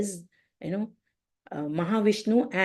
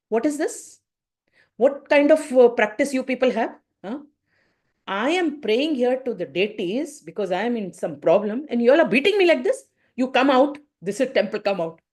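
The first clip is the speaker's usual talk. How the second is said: retold indignant outburst; 5 semitones higher than usual. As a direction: scold them like a man just struck. Beaten man angrily protests.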